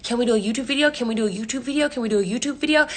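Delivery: singsong badgering on repeat; mock pestering. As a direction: imitate a nagging friend, each question alike. Imitates friend pestering repeatedly.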